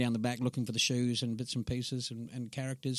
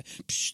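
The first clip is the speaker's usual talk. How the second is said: short "psh" of spraying; spray can sound effect; imitated spray can hiss; 4 dB quieter than usual. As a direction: make a quick spray-paint noise.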